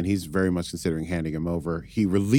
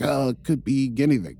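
lightly mocked obtuse dismissal; higher-pitched imitation of someone missing the obvious; blockheaded; 6 semitones higher than usual. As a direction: play it mildly oblivious. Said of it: "sort of being blockheaded about it".

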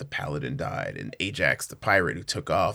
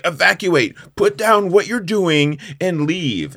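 loud, raised, stretched-out mock announcement; intercom evacuation call; 7 semitones higher, 5 dB louder, slower than usual. Covid correcting his intercom call, loud mock announcement. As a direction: call out a deliberate evacuation order. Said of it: "gets on the intercom and is like".

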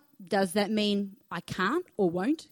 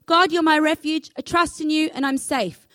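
bold declaration; 5 semitones higher, 3 dB louder than usual. Shown as a demonstration. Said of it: "Get up in the morning and say".

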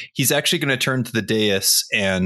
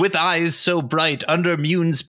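loud recital; 5 semitones higher than usual. Acted. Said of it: "in a loud voice".

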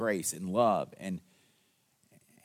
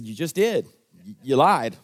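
blunt retort; 6 dB louder than usual. Retold or imitated. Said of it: "I looked at him and said".

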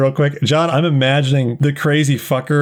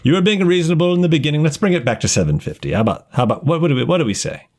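sheepish dealer; 4 semitones lower, faster than usual. Acted. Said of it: "he kind of looks sheepish and he goes".

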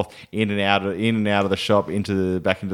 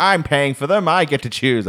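higher-pitched mock mum voice; pitched-up motherly insistence; imitated bossy mum; 5 semitones higher than usual. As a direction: lightly play mum laying down the law. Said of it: "She's like".

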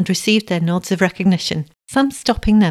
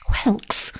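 higher, half-whispered eager guess; hope it's his favourite treat; 5 semitones higher than usual. A narrator's reading. Hungry blind boy guesses his supper, eagerly. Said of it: "he asked eagerly".

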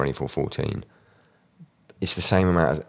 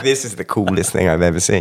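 awestruck; faster than usual. Retold or imitated. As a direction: gush like a starstruck fan. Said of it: "I was just like".

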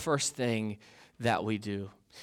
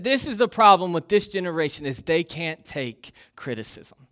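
mild angry; 3 semitones higher, 6 dB louder than usual. Retold or imitated. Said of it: "he was angry".

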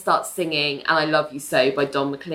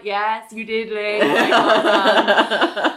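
dry mock praise; 2 semitones higher, 3 dB louder, much slower than usual. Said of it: "Nell's like".

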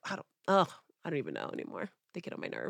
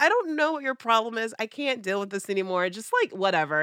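dismissive; 5 semitones higher than usual. Retold or imitated. Retold dismissal of ex.

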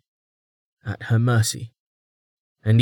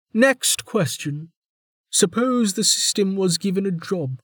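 higher, brisk interrogator; warden voice; 10 semitones higher than usual. A narrator's reading. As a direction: move on briskly, probing.

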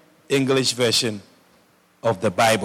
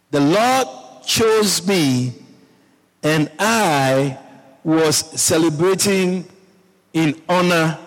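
slow, raised, deliberate proclamation; mock retort; 3 semitones higher than usual. David insists to his wife he was celebrating, deliberate retort. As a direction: repeat the king's answer phrase by phrase for emphasis. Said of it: "David told her".

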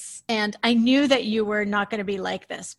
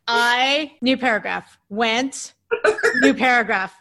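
dictating; 5 dB louder than usual. Shown as a demonstration. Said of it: "I copied this down".

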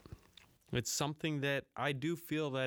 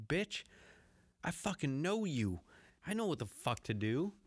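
cocky retort; 3 semitones higher than usual. Retold or imitated. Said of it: "But I was like".

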